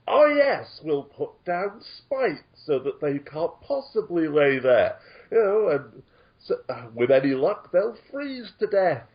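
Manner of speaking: sarcastic cheer for a cruel plan; cynical sarcasm. Acted. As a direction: feign delight at a great idea, pitch leaping up. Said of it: "I am being so cynical".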